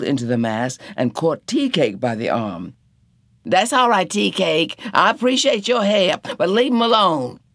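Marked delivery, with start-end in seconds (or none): 3.4-7.4 calm him in the chaos; Missus Turner pleading. A narrator's reading.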